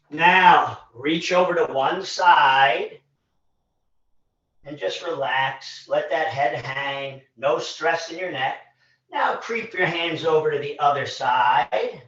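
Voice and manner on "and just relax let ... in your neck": soft, low, unhurried coaching; soothing relaxation cue. Real, not acted. Instructor telling the class to let the head hang, soothing. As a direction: ease them gently into the stretch.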